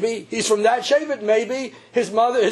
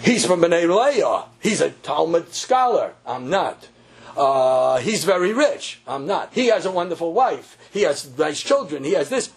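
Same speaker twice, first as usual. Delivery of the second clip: mock excuse-maker; 2 semitones lower than usual. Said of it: "we don't want anybody to say".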